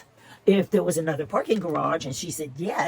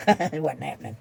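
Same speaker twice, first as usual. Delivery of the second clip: laughing through the words; 4 semitones lower than usual. Real, not acted. Telling viewers her refusal, laughing. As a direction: chuckle it out in disbelief.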